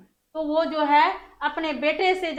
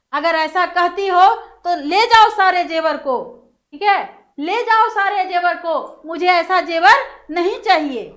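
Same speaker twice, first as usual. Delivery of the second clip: louder, retold angry outburst at mother; mock angry retort at mother; angry son; 4 dB louder than usual. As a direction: throw the jewels back at her in anger. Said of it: "गुस्सा करके कहा".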